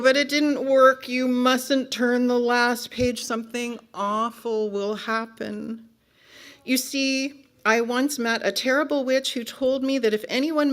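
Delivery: loud high wail easing into a confession; panicked book character. Acted. Book character fearing the last page, panicked. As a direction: cry out, then explain the dread urgently.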